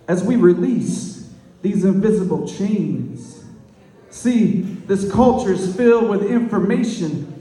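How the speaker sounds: rhythmic slam poetry delivery; punchy, lilting poetry cadence; spoken-word poem. Acted. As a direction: perform it as verse, leaning on every rhyme.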